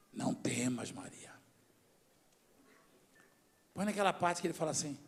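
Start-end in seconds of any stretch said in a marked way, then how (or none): 0.1-1.3 low, soft angelic reassurance. Acted. Angel appears to Mary in the field, softly reassuring. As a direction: lower and hush it like an angel.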